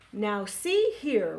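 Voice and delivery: Papa Bear roars. Acted. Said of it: "roared Papa Bear".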